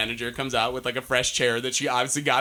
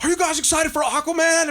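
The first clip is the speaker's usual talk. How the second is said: hype host call; 13 semitones higher, 3 dB louder than usual. Retold or imitated. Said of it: "he's like".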